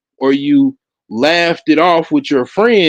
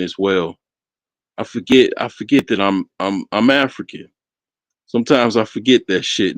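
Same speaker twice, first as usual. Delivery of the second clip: put-on African accent; 8 semitones lower, 3 dB quieter than usual. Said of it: "My African accent, man, is, is top tier".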